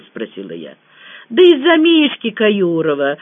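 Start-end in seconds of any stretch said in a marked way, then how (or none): none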